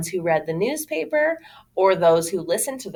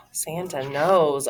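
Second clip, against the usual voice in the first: mock awe; 3 semitones lower, slower than usual. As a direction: gasp then a slow hushed title. Gasp, repeats title in awe.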